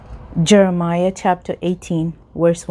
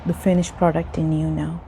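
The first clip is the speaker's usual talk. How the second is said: measured teacup's tale, phrase by phrase; parable narration. Acted. Continues parable, master answers teacup.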